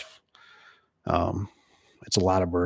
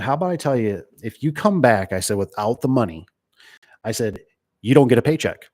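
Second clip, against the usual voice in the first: retold upset warning. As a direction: lay down the rule, ending hard on paycheck. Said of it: "I got really upset".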